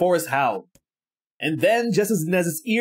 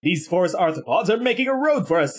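gleeful; 2 semitones higher than usual. Acted. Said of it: "said Chungus with glee".

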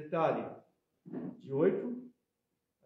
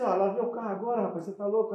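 retold warning; 4 semitones higher, 6 dB louder, faster than usual. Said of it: "eu falo assim".

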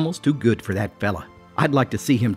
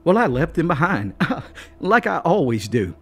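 hearty chuckle; 6 semitones higher than usual. A narrator's reading. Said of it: "with a hearty chuckle".

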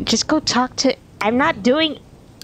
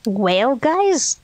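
badly faked British accent; attempted British accent; 2 semitones higher than usual. Shown as a demonstration. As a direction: have a shaky go at a British "Well, guys". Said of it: "I can't do a British accent".

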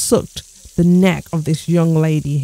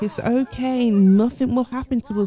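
put-on higher, naive little kid; a small boy reassuring himself; child voice; 4 semitones higher than usual. Little plant sim boy comforting himself, higher naive kid voice. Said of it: "He's like".

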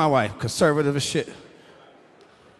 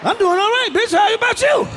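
mock polite check-in; 13 semitones higher, 3 dB louder than usual. Acted old couple in bed.

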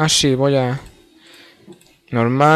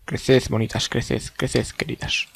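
soft coaxing; 6 dB quieter, slower than usual. Pretend. Coaxing plants to grow.

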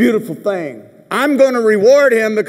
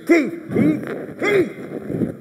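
high calls of his name; calling out; 10 semitones higher, 5 dB quieter, much slower than usual. Real, not acted. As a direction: call him from across the room. Calling out to audience member.

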